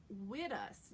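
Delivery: "with us" said slowly as "wid us"; D instead of TH. Shown as a demonstration. Coach offers a New York option, "with us" with a D. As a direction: harden the th in "with us" to a d. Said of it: "you could say it with a D".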